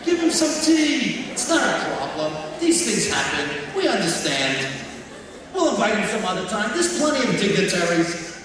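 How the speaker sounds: loud, high, soothing reassurance; imagined kind principal reassuring the wife, loud and soothing; soothing kind reply. Retold or imitated.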